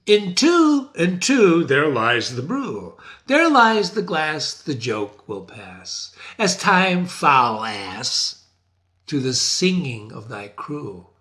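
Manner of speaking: smash the jars and jeer; scornful devil chant; devilish taunt. Acted. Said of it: "he says".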